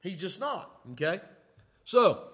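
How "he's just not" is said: mock scream. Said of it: "these miracles are gonna scream to you".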